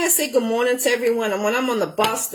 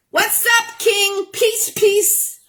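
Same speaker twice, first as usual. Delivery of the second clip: high, bright hype shout-out; excited greeting; 10 semitones higher, much slower than usual. Real, not acted. Greeting King on the mix, a high excited hello. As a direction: hype up the DJ as he arrives.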